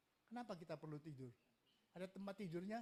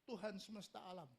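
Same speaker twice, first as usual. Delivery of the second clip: high, loud worship shout, fading; big high cry that gradually comes down; 9 semitones higher, 6 dB louder, slower than usual. Acted. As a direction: shout it like angels circling the throne. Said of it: "sambil teriak-teriak".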